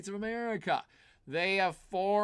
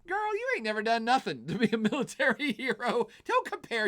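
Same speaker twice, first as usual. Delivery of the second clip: sassy scolding; 6 semitones higher than usual. Real, not acted. Mocking Le Pen's stance.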